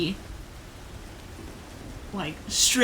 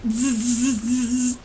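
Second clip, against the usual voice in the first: electric buzz; 3 semitones higher, 3 dB louder than usual. Shown as a demonstration. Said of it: "electric noise".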